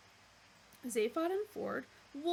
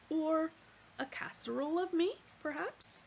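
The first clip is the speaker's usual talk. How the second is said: the polite meat-animal offering itself, higher; eager butcher's-block waiter voice; bovine waiter; 7 semitones higher, 3 dB louder than usual. Acted. Dish of the day offers itself, eager waiter.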